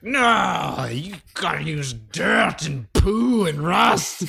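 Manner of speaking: high, slow, laughing villain shout; mustache twirling villain. Retold or imitated. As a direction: cackle it out like a cartoon baddie. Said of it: "He's like".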